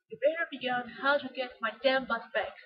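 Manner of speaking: "how" stressed; emphatic reading with weight on "how"; stressed with emotion. Shown as a demonstration. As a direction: lean on "how" in the demand. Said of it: "put the stress on the words".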